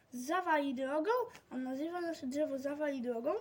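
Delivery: shocked, rising repeat of zawali drogą; indignant disbelief. Acted. Child repeating the boss's words, outraged and surprised. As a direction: echo the insult in disbelief.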